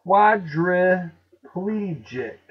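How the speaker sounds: "Quadriplegic" slowly as QUAD-ruh-PLEE-jik; loud, deliberate "Quadriplegic" with pl run together; four syllables. Shown as a demonstration. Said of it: "four syllables, not five".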